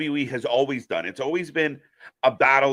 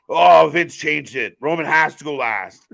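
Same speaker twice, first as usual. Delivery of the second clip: mock reporter; 7 dB louder than usual. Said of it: "J D gonna jump on and be".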